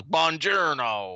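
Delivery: put-on slow, drawn-out hammy Italian accent; bad Italian accent. Brad Pitt's film character faking an Italian greeting, hammy Italian accent. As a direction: ham up an American's Italian. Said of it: "coming on with their accents".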